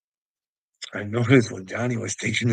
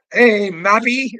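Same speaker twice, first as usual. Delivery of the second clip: loud, high, drawn-out holler; taunting call; 9 semitones higher, 12 dB louder, slower than usual. Pretend. Calling J Press by a nickname, taunting holler.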